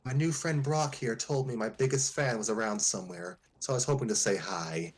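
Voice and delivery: deep commanding voice. Acted. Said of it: "in a deep, commanding voice".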